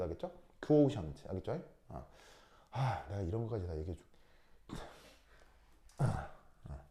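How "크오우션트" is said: "크오우션트" with weak "크" lightly joined to "오우". Shown as a demonstration. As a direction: tuck a light "크" onto "오우션트". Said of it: "뒤에 오우하고 살짝 붙여서". ("크오우션트"의 "크"를 "오우"에 살짝 붙여 발음)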